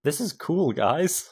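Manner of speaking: lightly voiced youth pastor; hint of a chummy youth pastor. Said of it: "Youth pastor voice".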